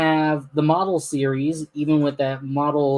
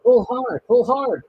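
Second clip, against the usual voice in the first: lightly voiced engine puffing louder, higher; 7 semitones higher, 4 dB louder, slower than usual. Edward straining to pull the train, mildly puffed and high. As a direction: chug out each word like working steam. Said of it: "puffed Edward".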